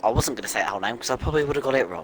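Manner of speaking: rushing out of breath; fast, winded after a long list. Real, not acted. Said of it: "I'm out of breath".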